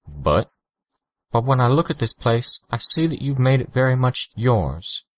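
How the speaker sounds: a polite official weighing her words; caseworker's voice. A narrator's reading.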